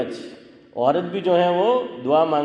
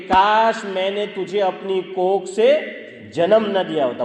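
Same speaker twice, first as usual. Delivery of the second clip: lightly acted lament, raised and slow; a hint of a worn-out mother, dragging out the regret; exasperated mother; 5 semitones higher, 4 dB louder than usual. Mother regretting giving birth to her child, exasperated lament. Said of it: "اور ماں بولتی ہے".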